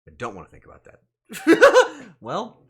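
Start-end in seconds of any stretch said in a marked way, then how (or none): 1.3-2.1 loud, high cackle; short explosive laugh; burst of laughter. Real, not acted. Streamer cracks up over another chicken, loud laugh.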